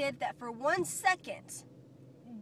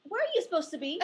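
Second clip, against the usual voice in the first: raised, stern classroom scold; stern teacher voice; 5 semitones higher, 5 dB louder, faster than usual. Acted. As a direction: call out a wandering student.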